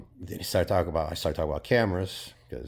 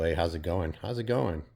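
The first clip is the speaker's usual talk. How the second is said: mock casual greeting; 2 semitones higher than usual. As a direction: toss off a polite small-talk hello. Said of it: "just a casual".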